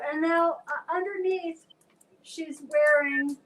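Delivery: slow, showy catwalk announcer; runway commentator. Acted. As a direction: present the outfit like a fashion show host. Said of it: "I sound like a fashion, uh, commentator".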